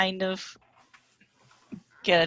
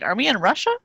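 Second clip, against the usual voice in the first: put-on Russian accent; 5 semitones higher, faster than usual. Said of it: "read all of his lines in a Russian accent".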